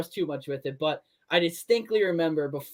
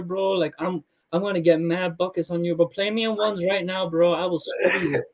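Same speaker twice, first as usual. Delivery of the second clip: lightly voiced casual teammate, just a touch of put-on; easygoing bro talk, barely shifted from own voice; Marcin impression. Imitating teammate Marcin bragging about his comeback. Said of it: "I do a good impression".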